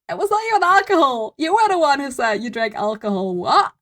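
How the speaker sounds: indignant. Real, not acted. Streamer indignant at the testimony.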